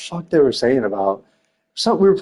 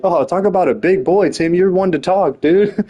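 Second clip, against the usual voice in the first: raised-pitch retort, a touch louder; retold comeback; 5 semitones higher, 3 dB louder than usual. Teller replaying his comeback to Tim, mildly mocking. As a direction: throw the taunt right back.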